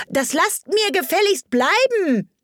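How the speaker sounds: high indignant shout. Acted. Alice shouts out the window, high and indignant. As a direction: call it out sharply. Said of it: "schrie hinaus".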